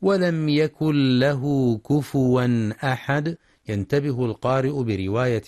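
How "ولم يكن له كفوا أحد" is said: slow, measured verse recitation; careful recited reading; Quran recitation. Shown as a demonstration. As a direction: recite slowly with tajweed elongations. Teacher recites the verse under discussion.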